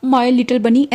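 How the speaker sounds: lightly voiced loving husband cooing at his partner; tender, lingering on the last words; smiling fondly. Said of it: "smile करते हुए".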